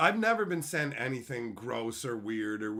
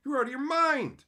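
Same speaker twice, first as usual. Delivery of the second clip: louder, higher outburst at the weirdos; incredulous yell; 12 semitones higher, 8 dB louder than usual. Real, not acted. Streamer yelling at creepy fans. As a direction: blast them for sending creepy stuff.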